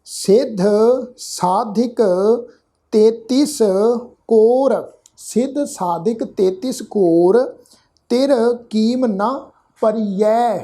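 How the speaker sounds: slow Gurbani reading, each word drawn out; measured scripture recitation. Shown as a demonstration. Teacher showing the congregation how to read the verse, slow measured recitation. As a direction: recite deliberately with pauses between words.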